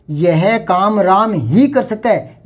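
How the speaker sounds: slow, with weight on Ram ही; stress on ही. Shown as a demonstration. Teacher demonstrating exclusive emphasis on ही, slowly. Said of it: "यानी दूसरे नहीं कर सकते".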